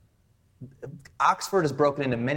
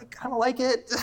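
higher, half-laughing mock timid voice; sheepish admission; 11 semitones higher than usual. American admitting to fellow students he likes home, sheepish.

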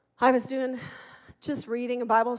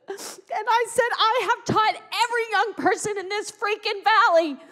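tearful yelling; 7 semitones higher, 4 dB louder than usual. Retold or imitated. Mother yelling at God after her son's death, crying. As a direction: hurl it at God through tears. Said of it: "And I began to yell".

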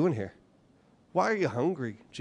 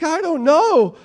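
wife's reply; 13 semitones higher, 11 dB louder, slower than usual. Retold or imitated. Wife in a retold fight.

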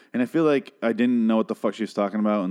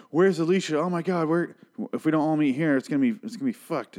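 mock panic; 7 semitones higher than usual. Imagined group panicking.

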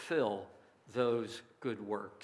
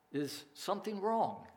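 kindly asked, pitched higher; a gentle, caring question, voice lifted; 6 semitones higher, 4 dB quieter than usual. A narrator's reading. Lady asks the lonely man at his tray, kindly. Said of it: "In a kindly manner, she asked".

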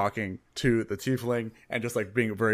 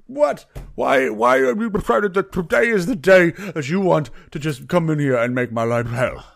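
higher and louder, fed up and pleading; exasperated yell; 5 semitones higher, 7 dB louder than usual. Acted. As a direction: demand to know why today of all days. Bartender exasperated at the player.

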